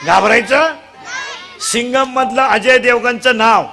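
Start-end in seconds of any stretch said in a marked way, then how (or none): 0.0-0.7 raised, rising crowd prompt; louder prompt. Real, not acted. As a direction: push the crowd for a louder answer. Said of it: "अरे जोरात बोला ना".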